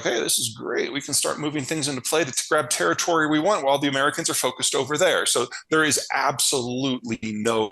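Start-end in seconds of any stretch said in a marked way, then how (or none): 0.0-5.3 higher, quickened imitation of opportunists; eager mock quote. Chinese leaders seizing the moment while Americans look away, mock eager. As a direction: rattle it off like a gleeful schemer. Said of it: "They were like".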